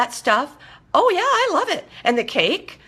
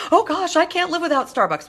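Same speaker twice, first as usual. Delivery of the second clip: higher, whining mock complaint; mock whiny excuse; 8 semitones higher than usual. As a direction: whine it like a spoiled kid who can't give it up. Client's mock excuse about Starbucks.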